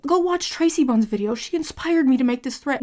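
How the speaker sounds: a hint of a smug fan parroting her; mocking fan voice. Mocking a fan's hate thread.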